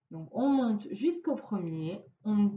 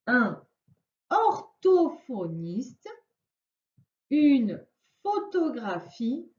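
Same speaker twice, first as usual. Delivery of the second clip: read the word slowly; slower than usual. Shown as a demonstration.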